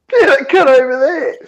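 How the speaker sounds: loud, high-pitched insisting; retold insistence. Telling a disbelieving friend at the bar, loud retold insistence.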